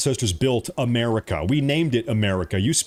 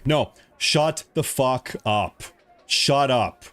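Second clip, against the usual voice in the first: slow angry; much slower than usual. Real, not acted. Angry rant at critics.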